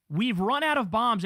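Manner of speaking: "We've run out of bombs" slow and savouring, proud; mock-gloat it like great news; slow proud boast. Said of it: "he's saying it like it's a great thing".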